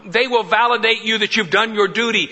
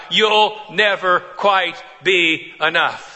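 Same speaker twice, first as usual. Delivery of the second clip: haunting echo; slower than usual. Retold or imitated. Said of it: "It's the same echo".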